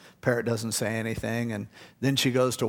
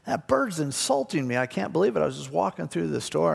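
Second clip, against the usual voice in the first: indignant lady; 5 semitones higher than usual. Retold or imitated. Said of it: "and she goes".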